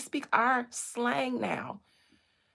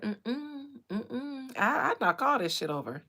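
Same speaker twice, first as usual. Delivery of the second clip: defiant millennial; 5 dB louder than usual. Retold or imitated. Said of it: "the millennials said".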